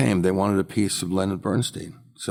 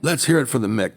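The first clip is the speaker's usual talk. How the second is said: lightly voiced rowdy fan, higher pitch; unruly auction crowd; 6 semitones higher, 3 dB louder than usual. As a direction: imitate a crowd cheering on its hero. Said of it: "a very unruly audience".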